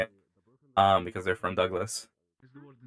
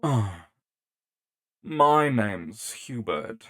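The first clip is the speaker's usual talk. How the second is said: pompous prick; much slower than usual. Pretend. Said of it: "Make him the most pompous prick possible".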